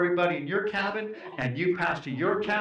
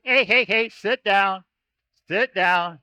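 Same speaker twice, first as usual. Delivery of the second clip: calling out; 6 dB louder, slower than usual. Real, not acted. Calming excited kids down.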